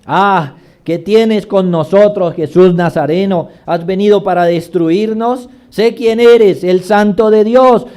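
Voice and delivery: crying out. Acted. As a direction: cry out in fear before Jesus. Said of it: "que dio voces diciendo".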